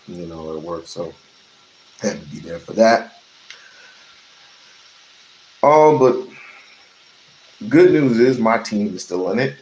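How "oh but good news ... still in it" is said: excited. Real, not acted. Cheering his team.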